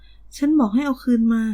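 loud, slow furious shout; almost scream the demand; near scream. A narrator's reading. Miri demands her phone back, almost screaming. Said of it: "มิรีแทบกรีดร้อง".

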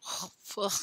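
quietly gag on the bite; disgusted groan. A narrator's reading. Boy eating a worm forgot the sauce, disgusted groan.

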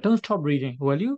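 don't stop reading said very slowly, word by word; slow example read. Shown as a demonstration. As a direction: read the example slowly so students can follow. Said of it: "Negative imperative".

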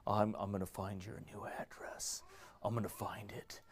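whispered menacing threat; creepy stalker whisper. Retold or imitated. Pastor voicing a stalker's threatening text, creepy whisper.

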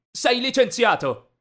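slow, high, loud dismissal; contemptuous firing. A narrator's reading. Rich boy firing the boy's father, loud and slow. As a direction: proclaim it with spiteful force. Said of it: "tirò dei soldi in faccia a mio padre".

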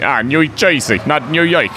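lightly hammed New Jersey accent; a put-on New Jersey twang. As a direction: twist the vowels into mock New Jersey. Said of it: "you sound New Jersey to me".

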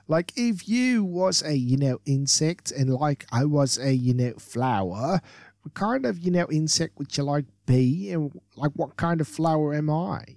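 lightly voiced ditzy valley girl. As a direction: play a bubbly airhead, lightly. Voices Barbara reading question.

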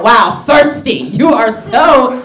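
high, loud, laughing mock scold; scolding girl. Comic scolding her date on the phone, high laughing mock scold. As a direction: tease her for answering too fast. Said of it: "I said".

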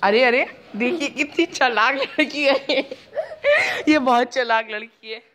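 amused, half laughing; laughing tease. Real, not acted. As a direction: laugh while calling her clever. Teasing about clever girl. (हंसते हुए चिढ़ाना)

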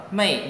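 "mây" with a firm falling tone; emphatic fourth tone on "mây"; stressed fourth tone. Shown as a demonstration. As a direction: drop "mây" sharply from the top. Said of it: "nhấn mạnh".

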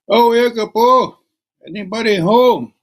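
high, carrying call into the house. Acted. Young woman calling into an old shack. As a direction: call out to whoever is inside.

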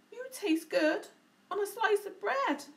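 loud hungry monster; Gruffalo voice. A narrator's reading. Gruffalo threatening the mouse, loud. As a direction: savour it like a greedy beast. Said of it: "the Gruffalo said".

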